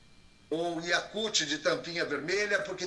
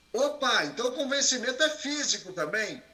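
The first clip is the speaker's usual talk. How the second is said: higher-pitched voice of sudden realization; surprised question; 6 semitones higher than usual. Acted. Coach voicing a listener catching on, surprised.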